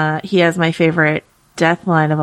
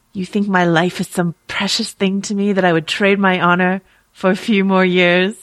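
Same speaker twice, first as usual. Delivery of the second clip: Sean Bean impression. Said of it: "try to do my best Sean Bean impression".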